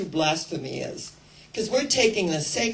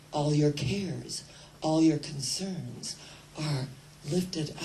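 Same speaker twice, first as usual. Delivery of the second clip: calm gentle God; 3 semitones lower than usual. Retold or imitated. God's calming words, soft and slow.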